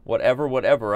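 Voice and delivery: petulant cartoon brat, lightly put on; Cartman. Streamer claiming it's his show, as a lightly voiced Cartman. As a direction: brush it off in a Cartman voice. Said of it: "I'm, like, literally Cartman right now".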